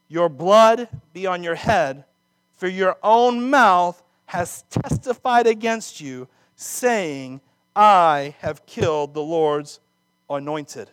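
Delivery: loud, slow, heavy verdict; booming judgment. Acted. Preacher voicing David sentencing the Amalekite, loud and slow. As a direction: pronounce the sentence slowly and loud.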